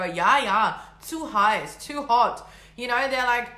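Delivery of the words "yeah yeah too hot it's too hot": louder, lightly imitated German complainer; mock German accent. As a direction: put on a German accent to grumble. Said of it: "Obviously not with an Aussie accent".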